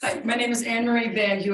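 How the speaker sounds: firm, carrying classroom voice; teacher voice. Real, not acted. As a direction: address the room like a teacher. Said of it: "I have my teacher voice on".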